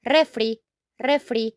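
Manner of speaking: refri, REH-free, rolled r; Spanish refri. Shown as a demonstration. Teacher modeling the short form of fridge, clear. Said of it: "We just say refri".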